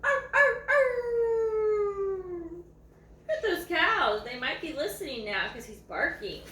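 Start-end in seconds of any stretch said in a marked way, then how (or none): 0.0-2.4 high howling arr arr arr; bay like a hound; hound dog bark. Shown as a demonstration. Imitating the hound dog barking at cows, high baying. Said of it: "Can you bark like a hound dog".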